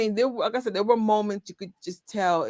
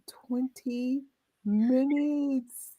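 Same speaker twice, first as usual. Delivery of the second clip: higher, slow, stretched "twenty minutes"; mock drawn-out quote; 7 semitones higher, 6 dB quieter, much slower than usual. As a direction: drag out "twenty minutes" in a high teasing voice. Replaying Marlon's joke, laughing.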